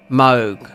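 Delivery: "Moog" with a long oh, like rogue; long-vowel Moog. Shown as a demonstration. Gamer saying it as Gideon would, long-vowel Moog. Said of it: "he'll say exactly the same thing".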